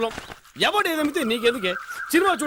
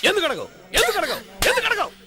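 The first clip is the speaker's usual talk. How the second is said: rising insistence; 8 semitones higher than usual. Acted. Father pressing daughter repeatedly.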